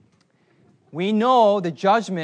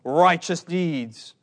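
a hint of a stern old British judge, slow; mock pronouncement from the bench, drawn out; lightly hammed-up wigged judge summoning the accused; much slower than usual. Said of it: "in my imagination, the judgment was".

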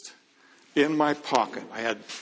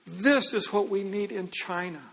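higher-pitched, emphatic "This is what we need in China"; with emphasis; 7 semitones higher than usual. Retold or imitated. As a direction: lean hard on the words, moved. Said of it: "just with emphasis".

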